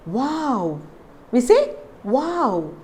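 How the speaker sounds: "wow" with lips pushed round; whistle-lipped W. Shown as a demonstration. Teacher demonstrates the W sound, lips rounded. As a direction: pucker for "wow". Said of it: "it is almost like you whistle".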